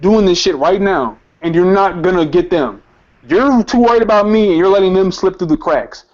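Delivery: indignant, pressing retold challenge; insistent retelling of defiance; heated protest. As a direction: argue it out, worked up. Retold angry challenge to officer.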